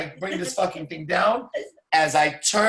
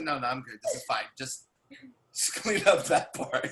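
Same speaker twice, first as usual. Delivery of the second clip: calm reassurance; 6 semitones lower, 5 dB quieter than usual. Retold or imitated. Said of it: "I said".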